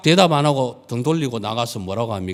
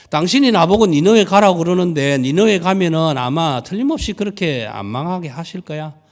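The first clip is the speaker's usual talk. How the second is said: whiny Jonah; 7 semitones higher, 5 dB louder than usual. Acted. Jonah complains to God, high.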